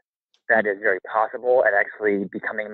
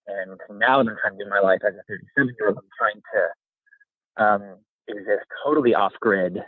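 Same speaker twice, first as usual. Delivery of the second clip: shaky voice. Real, not acted. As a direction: voice shaking from the cold. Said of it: "Sorry, my voice is kinda shaky".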